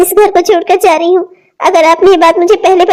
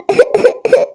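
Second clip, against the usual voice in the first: sob; 4 semitones higher, 3 dB quieter than usual. Acted. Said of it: "मैं रो रही हूँ".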